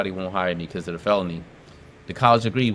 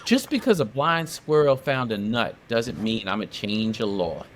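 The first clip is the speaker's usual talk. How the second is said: senator's dismissal. Retold or imitated. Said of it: "And then he said".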